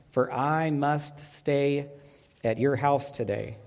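slow, measured Bible reading; deliberate pulpit reading with long pauses; scripture reading. Acted. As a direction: read the verse out slowly, phrase by phrase. Reads the verse aloud.

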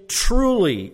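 emphatic and certain; affirming. Acted. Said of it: "He's actually affirming".

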